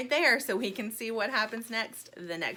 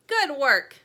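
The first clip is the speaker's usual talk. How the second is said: squirrel voice; 5 semitones higher, 10 dB louder than usual. A narrator's reading. Squirrel praises Sweetie.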